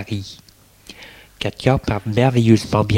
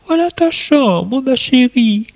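Hélène's voice. Acted. Hélène speaks to Katia.

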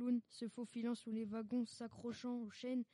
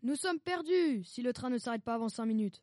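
desperate cry; 9 dB louder than usual. Acted. Wounded conductor cries out as he falls, desperate shout. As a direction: cry out that all is lost. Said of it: "cet homme s'écria".

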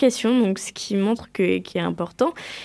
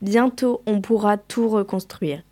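measured poem reading, line by line; poem recitation. Acted. Student reads a war poem on a class show, measured recitation. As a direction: recite it in even, separated phrases.

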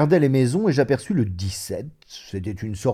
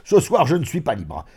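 loud, vexed outburst; boisterous, annoyed exclamation; exclaimed cry; 6 semitones higher, 5 dB louder than usual. Acted. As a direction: burst out, then hurry on in a high voice. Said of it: "et il cria".

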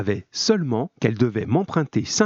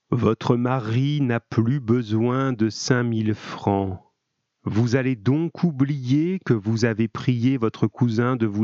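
slow, measured command; unhurried hypnotist's delivery; hypnotic suggestion; slower than usual. A narrator's reading. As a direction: instruct a sleeper slowly and deliberately. Doctor commands hypnotised sleeping woman.

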